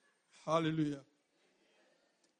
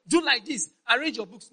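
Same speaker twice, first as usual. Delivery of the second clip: mock parent order; 3 semitones higher, 10 dB louder than usual. Voicing parent giving instructions.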